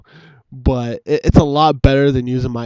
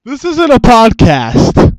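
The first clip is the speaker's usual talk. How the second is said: higher, slow mock correction; goofy put-on voice; 10 semitones higher, 7 dB louder, slower than usual. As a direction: drag it out in a silly voice. Cohost objects in silly voice.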